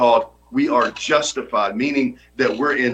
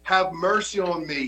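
retold yell; 6 semitones higher than usual. Preacher voicing the blind man's cry, high pleading call. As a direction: cry it out high, then let it drop. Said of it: "he yells out".

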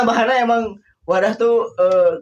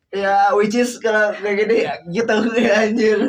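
slow, trendy South Jakarta slang; Jaksel slang; 3 semitones higher, 3 dB louder than usual. Shown as a demonstration. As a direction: lay on the Jaksel talk, slowly. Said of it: "menumbuhkan mentalitas Jaksel".

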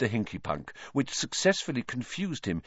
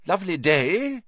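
higher, hearty minister voice; Fudge; 9 semitones higher, 3 dB louder than usual. A narrator's reading. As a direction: greet him with jovial bluster.

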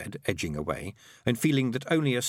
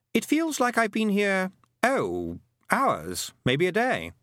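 put-on high boy's voice, groping for words; boy character, unsure; 10 semitones higher, slower than usual. A narrator's reading. Roland guessing how long he's been here, unsure high boy. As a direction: guess hesitantly in a high boyish voice.

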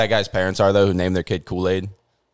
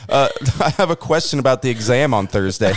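mock student voice; 6 semitones higher, 3 dB louder than usual. Imagines the coldest as a student.

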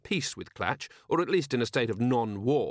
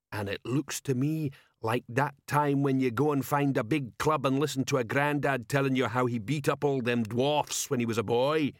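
troll voice. Acted. Troll sergeant asking his commander, dim troll voice.

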